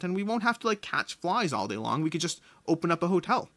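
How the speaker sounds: a hint of an eager frog selling his swamp hotel dream; frog pleading its case.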